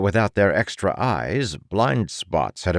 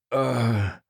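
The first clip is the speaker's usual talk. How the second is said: moan; 4 semitones higher than usual. A narrator's reading. The copy moaning, dazed and sick. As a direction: groan it out, half-conscious. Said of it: "moaned the other Advent Nine".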